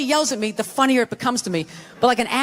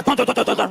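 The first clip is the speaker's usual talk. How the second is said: imitated running footsteps; 2 semitones lower, faster than usual. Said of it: "runs down the stairs".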